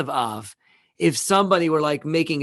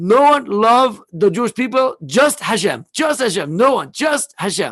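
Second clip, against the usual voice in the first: put-on very heavy Russian accent, raised voice; 7 semitones higher, 6 dB louder than usual. Speaker quotes a man's remark from years ago in his very Russian accent. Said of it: "he said it in his very Russian accent".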